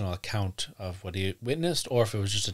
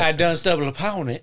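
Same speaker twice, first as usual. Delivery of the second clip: hick voice; 6 semitones higher, 5 dB louder than usual. Pretend. Hick voice joke.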